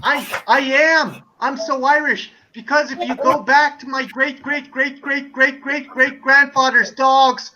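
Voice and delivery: insistent mock-American claiming Irish roots; American tourist accent. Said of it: "as Irish as the American leprechaun".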